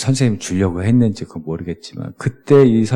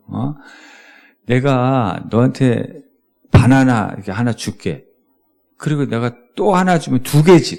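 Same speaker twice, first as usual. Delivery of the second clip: louder, exasperated teacher; raised teacher voice; 2 semitones higher, 4 dB louder than usual. Retold or imitated. Teacher losing patience with pupil over banana sums, louder and exasperated. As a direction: voice climbing with frustration. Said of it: "선생님 목소리가 이제 좀 높아지는 거지".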